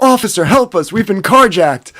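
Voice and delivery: high, hammed-up appeal; mock plea for help. Troy begging cop for help, high mock plea.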